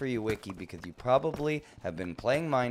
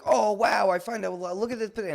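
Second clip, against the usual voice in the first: mock delight; 10 semitones higher, 7 dB louder than usual. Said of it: "Imagine you were like".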